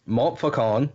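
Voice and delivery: Montfaucon said with a nasal French ending, mon-fo-KON; French accent. Shown as a demonstration. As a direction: Montfaucon in an attempted French accent, rising at the end. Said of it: "the best French accent I can do".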